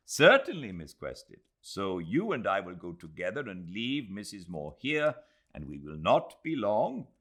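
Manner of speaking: lightly voiced eager young host, polite and keen; a hint of an eager Indian host, bright on the first word; eager courteous host, gently pleased; Aziz, eager host. Aziz speaking to the ladies.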